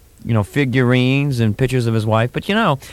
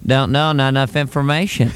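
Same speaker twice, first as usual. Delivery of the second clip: George Bush impression. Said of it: "He's very slippery".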